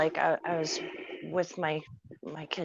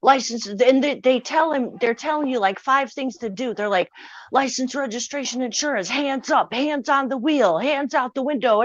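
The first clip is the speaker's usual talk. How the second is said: louder, fast barked commands; police yelling, retold; 5 semitones higher, 4 dB louder than usual. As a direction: rattle off the cops' orders loud and quick. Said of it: "The police are screaming at us".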